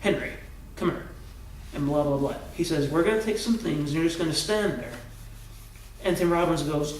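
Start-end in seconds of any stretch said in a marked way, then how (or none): 0.0-1.1 softly imitating a cool, calm request; understated, composed politeness; calm and collected. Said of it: "in a calm, cool, and collected manner". 2.9-4.9 understated, cool instruction; calm and collected. Retold or imitated. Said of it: "in a calm, cool, and collected manner".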